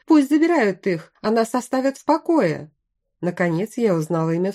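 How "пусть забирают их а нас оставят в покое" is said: louder, high-pitched call from the crowd; agitated cry. A narrator's reading. Panicked bandit demanding to be left alone, crying out. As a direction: cry out over the others, pitch raised. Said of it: "раздался ещё один крик".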